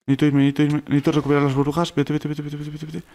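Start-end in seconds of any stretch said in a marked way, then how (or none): 1.9-3.0 rapid repeats fading to very soft; anxious little chant that fades out; urgent muttering. Real, not acted. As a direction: urge it under your breath, trailing away. Urging himself away, running out of bubbles.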